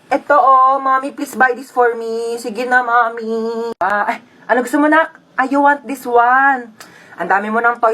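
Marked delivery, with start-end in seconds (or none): 0.1-3.7 put-on wheedling little-kid begging; whiny kid asking mommy; pleading child. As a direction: beg like a child, dragging out the last words. Plays child begging for toy.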